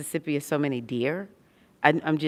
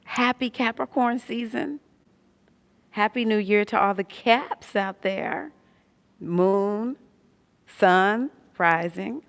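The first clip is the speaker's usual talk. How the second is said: higher, louder, slow festive greeting; slow, higher, louder season greeting; excited greeting; 6 semitones higher, 5 dB louder, slower than usual. Real, not acted. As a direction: celebrate the Caps, high and bright. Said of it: "pardon my manners".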